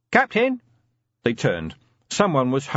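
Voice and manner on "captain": calling out. A narrator's reading. Someone calls from the gate.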